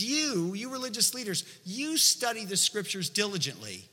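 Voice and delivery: preacher voicing a mild scolding; acted stern rebuke. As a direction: come down hard on them, slowing toward the end. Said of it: "he's really coming down hard on them".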